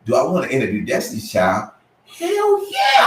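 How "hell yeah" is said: high, excited burst of joy; thrilled yell. Retold or imitated. Asked to interview a famous group, a thrilled high cry. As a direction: shout it like you won the lottery.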